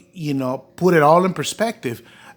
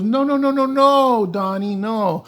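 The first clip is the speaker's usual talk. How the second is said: much higher, rushed no, no, no; retold high eager denial; eager reassurance; 8 semitones higher than usual. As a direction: hurry to reassure Donnie. Larry voiced reassuring quickly.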